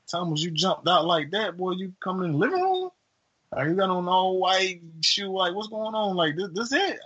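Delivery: hammed-up nosy relative demanding answers; suspicious call-out. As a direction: grill him like you caught him in the act. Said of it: "Quanda said".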